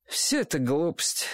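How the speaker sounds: mild, conciliatory dismissal; peaceable. A narrator's reading. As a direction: wave it away without any fight. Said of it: "миролюбиво сказал Чик".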